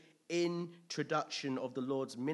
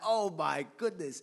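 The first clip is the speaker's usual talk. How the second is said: amazed; 4 semitones higher, 7 dB louder than usual. Retold or imitated. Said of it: "It's like".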